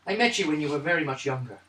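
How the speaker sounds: measured character voice, light Irish-like lilt; lightly voiced old acquaintance. Character tells Paydar they met long ago, lightly voiced. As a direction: speak as someone sizing up a former youngster.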